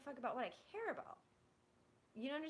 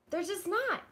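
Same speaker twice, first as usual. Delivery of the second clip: loud and higher on the last word; final firm declaration; emphatic; 7 semitones higher, 10 dB louder than usual. Real, not acted. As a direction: slam the point home.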